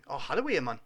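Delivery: Geordie dialect phrase; broad Geordie. Shown as a demonstration. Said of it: "I do".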